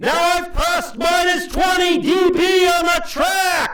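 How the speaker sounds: slow, drawn-out, very high, loud yelling. Demonstrating the minus twenty safety track on meters, yelling. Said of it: "So I'm gonna yell again".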